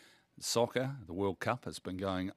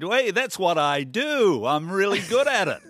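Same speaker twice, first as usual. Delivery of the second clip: terrible Trump impression; 8 semitones higher, 5 dB louder than usual. Host quoting the president on politics and sport, terrible impression. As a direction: badly imitate a boastful president, loud and stretched out. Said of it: "That was a terrible impression".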